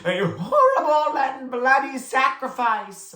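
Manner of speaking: dutiful repetition. A narrator's reading. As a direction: repeat it obediently. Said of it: "repeated dutifully".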